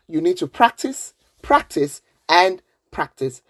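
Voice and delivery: practice, practice, and practice, each one hit; teacher urging practice; stress on practice. Shown as a demonstration. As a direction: hammer home each practice. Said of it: "stressing practice".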